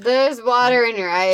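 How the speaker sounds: flat robotic voice. Retold or imitated. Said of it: "in the most robotic Tyra Banks".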